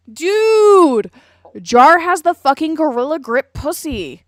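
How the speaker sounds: high, loud outburst; exclaiming loudly. Real, not acted. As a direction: shout it like a scandalous announcement. Exclaims a crude joke over video.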